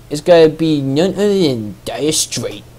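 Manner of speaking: put-on hammy Boston accent announcer. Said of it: "I'm trying to put on a Boston accent now".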